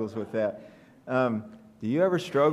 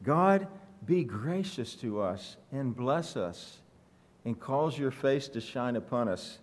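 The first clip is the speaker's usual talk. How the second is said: heartfelt plea; 3 dB quieter than usual. Acted. Pastor voicing the psalmist's plea for blessing, heartfelt. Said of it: "You can feel the psalmist's heart".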